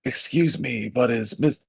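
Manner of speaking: put-on creaky elderly man asking politely; old man voice, a bit unsure. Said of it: "I'm debating going with my old man voice".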